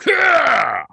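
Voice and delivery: loud, high laughing yell; laughing shout. Real, not acted. Laughing shout after threat.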